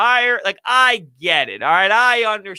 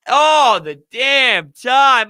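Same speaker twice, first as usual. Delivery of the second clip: 1 emphatic shout; 6 semitones higher, 5 dB louder, much slower than usual. Real, not acted. Repeating complaint with a shout.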